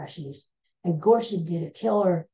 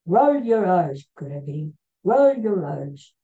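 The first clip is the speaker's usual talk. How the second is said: stern professor; 5 dB louder than usual. Retold or imitated. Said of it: "my professor would always say".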